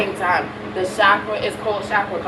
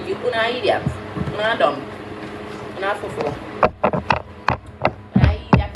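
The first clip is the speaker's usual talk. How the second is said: Caribbean accent. Real, not acted. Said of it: "You hear how strong my little Caribbean accent is?".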